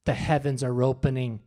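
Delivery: low-pitched mock sleep-talk pronouncement; low, ominous sleep-talker impression; imitating sleep-talking wife. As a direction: intone it like a mock prophecy from sleep. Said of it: "she said this sentence".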